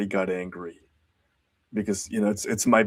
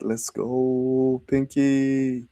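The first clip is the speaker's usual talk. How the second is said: cheering a viewer on, pitched up; excited shout-out; 4 semitones higher, much slower than usual. Real, not acted. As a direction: hype up the chat. Hyping a viewer in chat.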